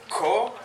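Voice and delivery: Ko said high and separate; stressed syllable. Shown as a demonstration. Teacher splitting up Sankofa for the crowd, stressed syllable. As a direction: hit Ko on its own. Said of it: "which means to go".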